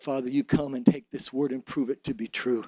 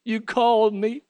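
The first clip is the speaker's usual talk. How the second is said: high, louder, slow cry of grateful joy; overjoyed thanks; 6 semitones higher, 5 dB louder, slower than usual. Acted. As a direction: cry out in joyful relief. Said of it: "and you say".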